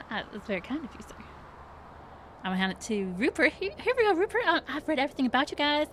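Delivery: very high, fast, gushing perky voice; bubbly HR lady. Acted. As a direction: chirp it out like an overeager hostess. GM keeps playing Becky.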